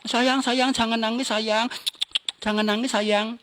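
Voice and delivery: lightly acted parental comforting; soothing parent. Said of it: "dipeluk, disayang-sayang".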